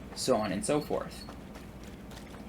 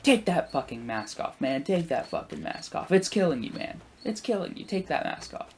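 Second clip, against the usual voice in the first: half-voiced retold yelling with raised pitch; mock yelling; 6 semitones higher than usual. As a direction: imitate a man hectoring someone, pitched up. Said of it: "the husband starts yelling stuff".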